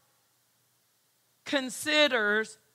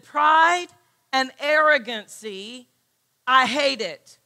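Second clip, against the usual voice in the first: God's declaration; 5 dB louder than usual. Acted. Preacher quoting God forcefully.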